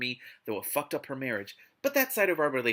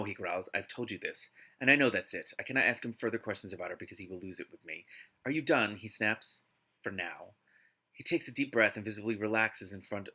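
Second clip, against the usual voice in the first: story narration; 3 semitones lower than usual. Acted. Reads the novel aloud.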